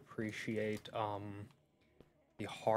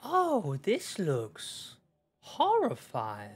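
horrified gasp; 7 semitones higher, 7 dB louder, much slower than usual. Real, not acted. Reacting to scary level.

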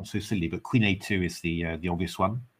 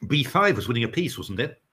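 mouth full. Real, not acted. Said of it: "had my mouthful".

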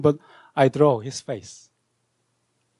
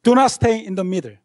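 quoting Pascal; 5 semitones higher than usual. Retold or imitated. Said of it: "he said".

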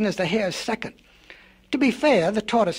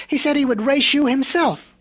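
deadpan mischief; 6 semitones higher, 4 dB louder than usual. A narrator's reading. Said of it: "with a straight face".

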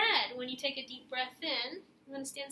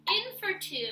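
counting cue; 6 semitones higher, 5 dB louder than usual. Shown as a demonstration. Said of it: "set my metronome".

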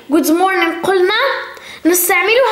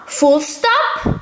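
slow drilled model. Shown as a demonstration. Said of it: "teacher drilling English terms".

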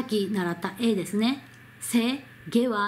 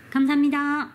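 stiff formal thanks; 4 semitones higher, faster than usual. Retold or imitated. Store staff thanking a customer, stiffly formal. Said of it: "非常に硬いです".

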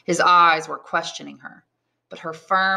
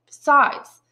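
high-pitched, insistent heroine voice; much higher voice, pleading and firm; exasperated young woman; 9 semitones higher, 3 dB louder than usual. A narrator's reading. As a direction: voice a young woman firmly turning down a suitor.

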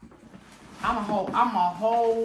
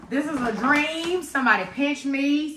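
excited; 4 semitones higher than usual. Real, not acted. Overjoyed opening the big box.

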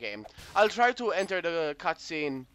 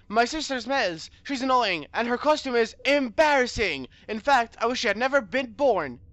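higher, emphatic reading of insults; lightly voiced game character; 4 semitones higher, 5 dB louder than usual. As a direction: complain about an annoying sister, slightly heightened. Reads a game character's recorded taunt.

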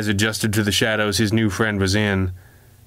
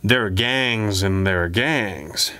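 casual; slower than usual. Acted. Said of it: "Samson said casually".

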